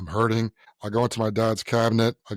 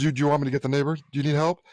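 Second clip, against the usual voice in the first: lightly voiced mom, a bit higher; imitating helpful mom; 4 semitones higher, much faster than usual. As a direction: play a mother offering help. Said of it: "she goes, she goes".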